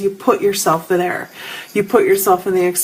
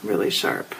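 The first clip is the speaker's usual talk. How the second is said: pained whisper; 8 dB quieter than usual. Real, not acted. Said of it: "I'm getting this sharp pain".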